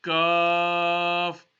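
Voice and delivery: Kaf with a light, thin k at the front; thin Arabic Kaf. Shown as a demonstration. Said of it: "thinner sound".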